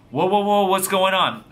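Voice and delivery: loud, high "whoa" to halt someone; acted alarm. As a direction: imitate someone startled, breaking up a row. Startled man interrupting her outburst.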